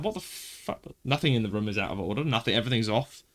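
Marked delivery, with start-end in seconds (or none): 0.0-0.8 whispered in disbelief, barely breathed; shocked whisper. Retold or imitated. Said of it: "I'm like".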